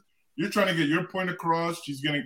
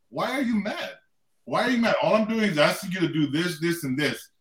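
calm wife; 2 semitones higher than usual. Retold or imitated. Husband voices his wife asking why he's mad, calmly. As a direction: imitate a calm, reasonable wife. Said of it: "she's still calm".

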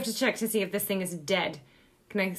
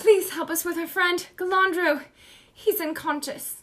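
urgent plea; 6 semitones higher than usual. Acted. Player pleads with midwife in character.

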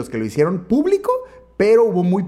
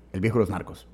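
mock French accent, lower and softer; 10 semitones lower, 8 dB quieter, faster than usual. Shown as a demonstration. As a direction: say the title in a hammy French accent. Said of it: "voy a imitar acento francés".

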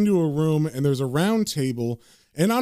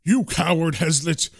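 mild acted yell; held-back angry rebuke. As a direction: scold with contempt, punching the insults. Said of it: "Marston is yelling back".

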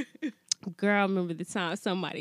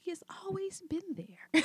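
mock sentimental; 9 semitones higher, 6 dB quieter than usual. Mock-sentimental line about chocolate.

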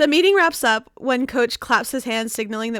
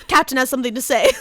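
imitating Bucky; 2 semitones lower, much faster than usual. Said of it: "like, Bucky going".

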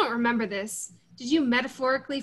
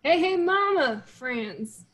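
Franz; 4 semitones higher, much slower than usual. Retold or imitated. Recalling Franz with a friend, imitated greeting. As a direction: imitate a friend's cheery catchphrase.

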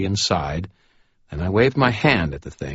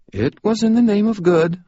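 high, defensive excuse; sheepish; 5 dB louder than usual. Acted. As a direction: justify yourself with a grin. Harry justifies himself sheepishly.

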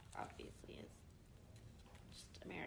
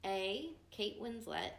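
slow, louder announcing of the name; a slow, slightly louder reveal of "Kate Winslet"; odd drawn-out name; 5 dB louder, slower than usual. Real, not acted. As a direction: stretch "Kate Winslet" out like a game show host. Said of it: "I don't know why I said her name like that".

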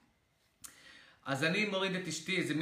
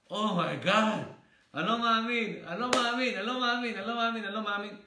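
higher, louder looping disbelief; stunned disbelief; 5 semitones higher, 3 dB louder than usual. Retold or imitated. Speaker reliving seeing his old friend, loud excited disbelief. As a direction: keep repeating it like you can't process it.

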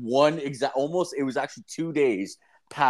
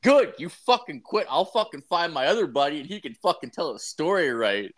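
mock angry retort; 4 semitones higher than usual. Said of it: "I'm like".

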